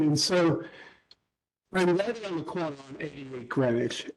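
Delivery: choppy audio cutting out on a bad line; garbled, dropping-out call connection; breaking up. Real, not acted. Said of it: "There's the breaking up".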